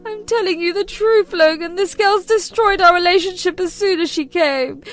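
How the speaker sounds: high, loud guilt-tripping mother; shrill ultimatum. Acted. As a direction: demand he choose her.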